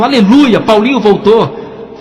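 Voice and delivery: high, loud, drawn-out hallelujah; loud joyful cry. Retold or imitated. Mother shouting for joy as her son returns, loud and slow. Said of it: "minha mãe abriu a porta e disse bem alto".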